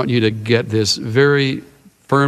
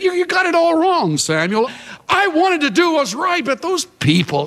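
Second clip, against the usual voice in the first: high, pleading excuse voice; whiny Saul; 10 semitones higher than usual. Retold or imitated. Preacher voicing Saul's excuses to Samuel, high and whiny. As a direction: play the king wriggling out of blame, high and whiny.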